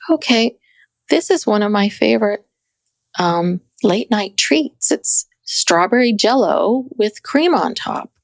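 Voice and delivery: a gentle imitation of a hushed lifestyle influencer; lightly voiced calm influencer, slowed down; muted soft-spoken influencer. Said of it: "she has a voice like, like this".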